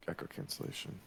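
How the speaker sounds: word cut out by noise suppression; choppy, gated mic sound; noise reduction artifacts. Real, not acted. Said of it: "We'll see if it keeps cutting in and out".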